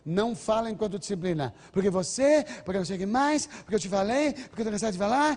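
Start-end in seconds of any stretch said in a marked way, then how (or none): 1.7-5.4 nagging parent. Retold or imitated. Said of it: "Não fica repetindo".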